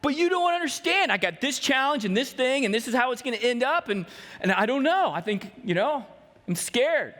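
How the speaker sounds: a hint of nervous pleading; anxious protest. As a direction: whine out your fear. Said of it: "where you're like".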